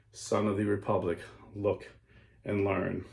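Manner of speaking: soft solemn summons; hushed mysterious voice. Acted. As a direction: murmur it like a distant oracle. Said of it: "the mysterious voice saying".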